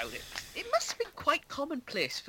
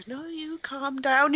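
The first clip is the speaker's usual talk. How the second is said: higher, slow strained mock rage; mock angry; 7 semitones higher, 3 dB louder, slower than usual. Imitating Brian Blessed scolding his brother, mock angry. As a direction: act out the brother barely holding it together. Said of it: "he keeps telling, um, Leonardo".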